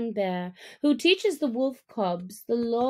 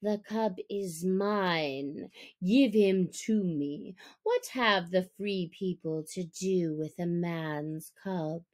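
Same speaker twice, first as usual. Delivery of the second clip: Shere Khan; 3 semitones lower, 3 dB quieter than usual. Acted. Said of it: "The voice of Shere Khan was crying".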